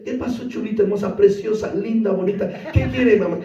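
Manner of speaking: lightly voiced smooth-talking butcher; a hint of a charming butcher sweet-talking a customer; mild mock flirty vendor patter. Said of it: "sabe cómo le habla el carnicero".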